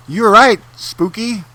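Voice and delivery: high goofy co-host voice; squeaky sidekick answering back. Acted. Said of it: "that's what my sidekick or co-host would be named".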